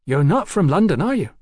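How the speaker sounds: high-voiced cheeky London girl. A narrator's reading. Hetty sizing up Mallory.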